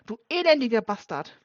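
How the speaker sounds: put-on father bursting in, shouting at the boy in fury; furious shout. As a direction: spit out the insult in rage. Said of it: "mit zornesrotem Gesicht".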